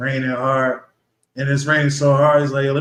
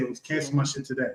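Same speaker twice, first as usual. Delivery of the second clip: put-on angry voice, quieter; 9 dB quieter than usual. Retelling a call to the insurance company, retelling own angry words. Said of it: "I was so pissed off".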